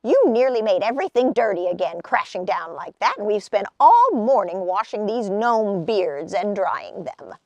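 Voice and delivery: fast, loud cross gnome voice; grumbling gnome. Acted. Gnomes grumbling about their clean washing, cross and fast. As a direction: rattle off the complaint. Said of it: "the gnomes grumbled".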